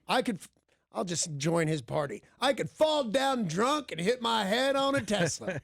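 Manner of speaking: mock South African accent; a weak South African accent. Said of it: "That's my South African accent".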